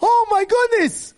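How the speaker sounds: high, loud exclamation of shock; father crying out in shock; horrified cry. Acted. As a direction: cry out watching the car wreck. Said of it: "he's saying".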